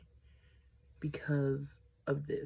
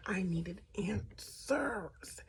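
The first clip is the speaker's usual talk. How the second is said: slow, soft, deliberate whisper; whispered emphasis; 4 semitones higher, 4 dB quieter, much slower than usual. Real, not acted. Telling viewers why she stayed, slow whisper. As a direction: whisper it slowly, stressing each word.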